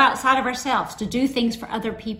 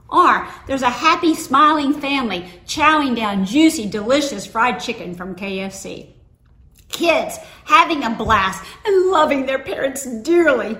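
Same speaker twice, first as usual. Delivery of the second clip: higher and louder, bubbly advert pitch; mock TV ad voice; 3 semitones higher, 5 dB louder than usual. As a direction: oversell the happy family. Mocking a TV ad.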